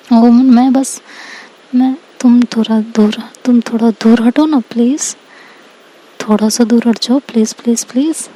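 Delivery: nervous, halting request; flustered plea. Acted. Girl backed against the wall asking for space, flustered.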